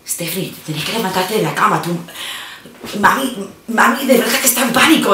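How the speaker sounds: rapid hushed Spanish from sister; sister speaking in code. Retold or imitated. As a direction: urge her up fast in Spanish code. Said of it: "speaking to me in code".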